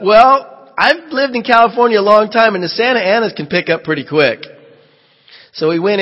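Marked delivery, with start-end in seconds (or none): 0.0-4.5 raised, cautious warning voice; voice of caution. Retold or imitated. Warning the crew about Santa Anas, a bit raised and cautious. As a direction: play the careful one urging caution. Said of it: "I was the voice of".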